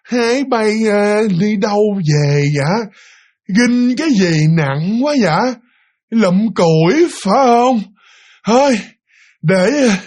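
high, very slow, drawn-out crone; feeble, wobbly old woman. Retold or imitated. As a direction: stretch each phrase high, like a ghostly granny. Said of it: "vừa dẹo đó". (giọng bà già dẹo, yếu ớt)

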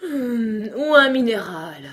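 high, slow words stretched by yawns; yawning lion. A narrator's reading. Weary lion questioning Alice, yawning. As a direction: yawn through each drawn-out word. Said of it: "demanda-t-il en bâillant après chaque mot".

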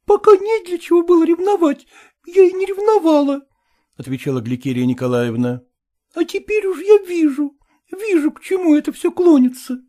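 high, reproachful woman's voice; jealous wife. A narrator's reading. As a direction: accuse him in a high woman's voice. (высокий упрёк ревнивой жены)

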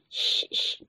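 drawn-out "shh, shh"; soft hissed shushing sound; hushing shh. A narrator's reading. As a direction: shush the others twice, unhurried. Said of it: "کر کے ایک دوسرے کو چپ کروایا".

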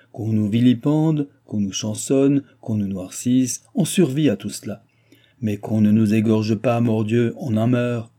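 emphatic list, each grievance leaned on; indignant protest. Acted. Man protesting wrongs to the chancellor, indignant. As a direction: protest with mounting force. Speaker protests against being ruined.

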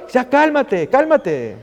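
put-on insistent father settling his child down; father calming son. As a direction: cut off the panicking son firmly. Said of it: "como un padre le dice a un hijo".

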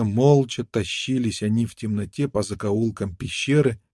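usual speaking voice

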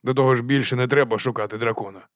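plain reading voice

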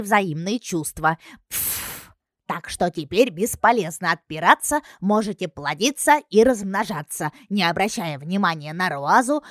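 blunt mocking summary, pushed out; Klava's voice.

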